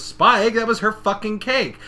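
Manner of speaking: high, exasperated telling-off; mock scolding. Friend scolding Spike over the ruined cake, mock scolding. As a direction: call the name out loud, then scold.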